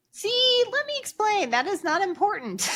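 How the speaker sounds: mock exasperated explaining. Mother correcting the speech therapist, mock exasperated. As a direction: spell it out in a squeaky exasperated pitch. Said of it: "And I'm like".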